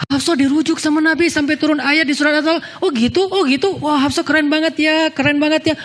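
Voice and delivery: high, bubbly chatter; excited gossip. Acted. The Prophet's wives gossiping about Hafsah, high and excited. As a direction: gush like gossiping friends.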